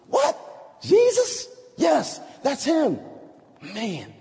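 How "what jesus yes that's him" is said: shocked gossip. Acted. Townspeople gossip acted out.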